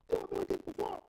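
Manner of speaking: high, disbelieving question; incredulous. Retold or imitated. Preacher mocks his friend's excuse, high and incredulous. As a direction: throw it back in total disbelief.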